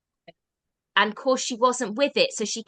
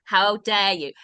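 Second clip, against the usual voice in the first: spiteful mum; 4 dB louder than usual. Retold or imitated. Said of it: "out of pure spite".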